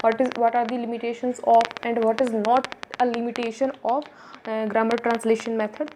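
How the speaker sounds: very slow, word-by-word reading of the slide; teacher reading notes aloud, very slow; slow bullet reading. Acted. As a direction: dictate it so students can copy. Reads sample exam question slowly.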